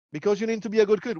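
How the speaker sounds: hint of a parent explaining to a child; exasperated parent. Parent answering a child's endless why, mildly exasperated.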